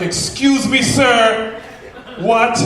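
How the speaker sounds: high, loud startled what; shocked barista. Retold or imitated. Barista stunned by his order, high startled disbelief. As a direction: repeat it back in disbelief.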